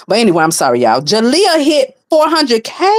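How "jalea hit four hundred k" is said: high, drawn-out question of disbelief; real incredulous reaction; astonished. Real, not acted. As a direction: stretch it out in high-pitched amazement. Astonished at follower count.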